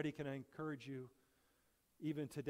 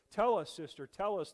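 louder call-and-response cry; shouted back; 4 semitones higher, 8 dB louder than usual. Acted. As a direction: call back to her, urging. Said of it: "the Ugandans shouted back".

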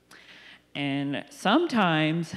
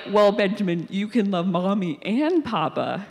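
mock patient mom, louder; a hint of a teaching mom, louder; gently correcting; 3 semitones higher, 6 dB louder than usual. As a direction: reason with the toddler, raised voice. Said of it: "And I was like".

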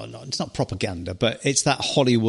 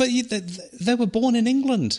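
indignant; 10 semitones higher than usual. Real, not acted. Indignant retelling.

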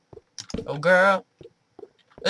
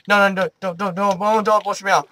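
panicked pleading; 3 semitones higher, 4 dB louder than usual. Real, not acted. Begging not to be pushed.

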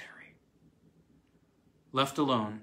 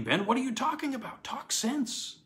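higher, fast and agitated; agitated lawyer; 12 semitones higher than usual. Acted. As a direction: snap him out of it, impatient. Young lawyer demands an explanation.

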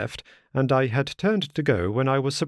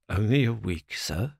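a crushed butler begging for more time; despairing; 2 semitones lower than usual. A narrator's reading. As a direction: plead in disbelief, voice sinking. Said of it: "he cried in a despairing voice".

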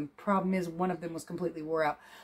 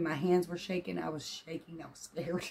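quiet; 8 dB quieter than usual. Real, not acted. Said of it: "I was literally shaking".

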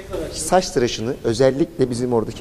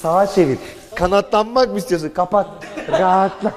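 hammed-up salesman pitch, raised voice; mock TV ad voice; 4 semitones higher than usual. Pitching the tap to camera, hammed-up ad voice. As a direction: sell it like a cheesy commercial.

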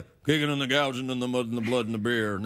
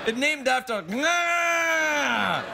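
alien visitor; 10 semitones higher, much slower than usual. Pretend. Aliens arriving, comic voice.

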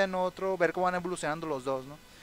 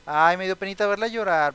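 sympathetic; 3 semitones higher, 8 dB louder than usual. Real, not acted. Sim wife crying.

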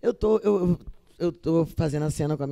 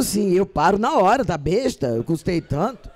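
ordinary delivery

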